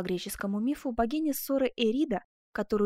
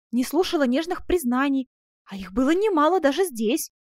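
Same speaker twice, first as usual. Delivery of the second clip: put-on higher young woman insisting; Scotsona's earnest voice; 5 semitones higher, 6 dB louder than usual. A narrator's reading. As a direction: press her devotion on him. (настойчивый голос девушки, выше)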